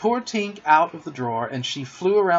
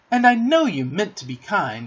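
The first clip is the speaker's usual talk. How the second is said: higher, mildly conciliatory; relenting; 6 semitones higher, 4 dB louder than usual. A narrator's reading. Wendy forgiving Peter for kicking John, relenting. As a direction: soften into forgiveness. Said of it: "she said, relenting".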